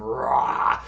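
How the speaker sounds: short gruff roar; wrestler roar. Pretend. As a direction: growl a wrestler's battle cry. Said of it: "gruff pro wrestler voice".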